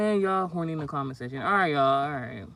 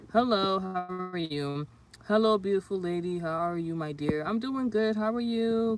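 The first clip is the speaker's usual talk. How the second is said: a touch of a sugary, fond hello; sweet greeting; 3 semitones higher, 4 dB louder than usual. Acted. Welcoming viewers on the livestream, lightly sugary and fond.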